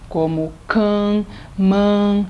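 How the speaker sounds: can and man with a wide open a. Shown as a demonstration. Teacher showing the open a in can. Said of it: "do an".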